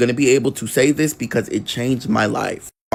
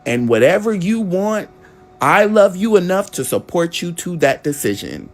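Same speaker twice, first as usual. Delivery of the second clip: tender mother. Retold or imitated. Mother reveals adoption, tenderly.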